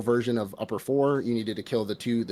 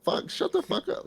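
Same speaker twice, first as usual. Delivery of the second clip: exasperated whisper. Retold or imitated. Telling crow to shut up.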